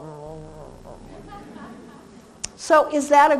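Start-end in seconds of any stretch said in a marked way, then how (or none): 0.0-1.4 rottweiler grumble. Retold or imitated. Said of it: "heard a Rottweiler ... go".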